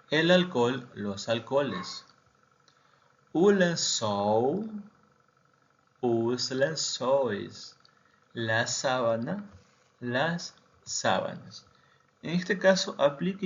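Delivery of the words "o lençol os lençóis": "lençóis" con nasal "len" y "óis" abierto, lento; "os lençóis" dicho "us lençóis", despacio; pronunciación portuguesa. Shown as a demonstration. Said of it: "termine con ol". (plural portugués lento)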